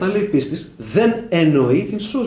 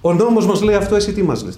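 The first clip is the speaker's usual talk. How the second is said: louder, higher accusers' challenge; mock challenge; 7 semitones higher, 7 dB louder than usual. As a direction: demand an answer like the crowd.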